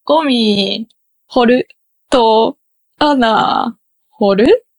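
slow, tentative Kansai contrast of ゴミ掘る and 穴掘る; Kansai pitch accent. Shown as a demonstration. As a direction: practise Kansai accent, word by word. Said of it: "教えてもらった関西弁で".

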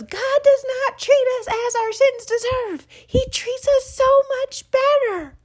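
put-on high, loud, slow child voice; little boy proclaiming. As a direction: announce it proudly like a toddler. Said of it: "And he goes".

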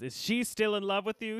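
retold yell. Podcaster retells Oz grabbing Tara, mock angry yell. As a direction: imitate an angry demand, voice jumping up. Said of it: "He, like, yells at her".

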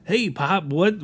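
usual speaking voice

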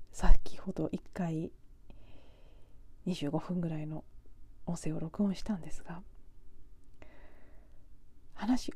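half-whispered, intimate podcast voice; breathy near-whisper for late-night listeners; hushed talk. Real, not acted.

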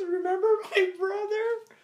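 very high put-on girly voice; mock ex voice. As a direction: lilt it like the ex. Ex introduces brother.

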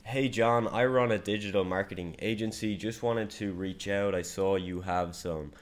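hesitant, unsure cold pitch with no conviction; unconfident voice message. Shown as a demonstration. Salesman demoing how a bad voice message sounds, hesitant and unsure. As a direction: mumble through it like you don't believe it. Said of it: "your voice messages sound like this".

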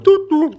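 high mock time beeps; beep imitation. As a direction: imitate the radio time signal.

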